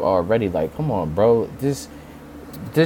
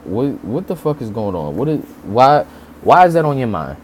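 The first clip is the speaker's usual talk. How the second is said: incredulous rant. Retold or imitated. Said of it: "I'm like".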